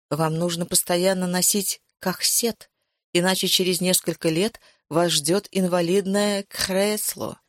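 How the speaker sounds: mock burred r in "кахсет", throaty French-like r. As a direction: mimic a doctor who can't roll the r in "кахсет". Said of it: "неприязненно картавя передразнивала она остеопата".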